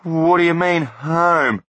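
high, loud panic; panicked shout. Acted. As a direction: shout in fright. Blunt terrified.

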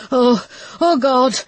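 slow, high alarmed gasp of words; alarmed cry. Acted. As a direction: cry out in shock, drawn out. Waters break in the car.

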